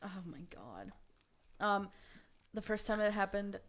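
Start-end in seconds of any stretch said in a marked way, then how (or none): 0.0-0.9 whisper. Real, not acted. Reacting to a gross story.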